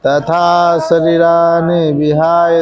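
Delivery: slow, chanted Sanskrit verse; slow shloka recitation. Shown as a demonstration. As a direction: recite each word slowly for students. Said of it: "तीन बार मैं इसलिए पढ़ाता हूँ". (धीमे स्वर में श्लोक पाठ)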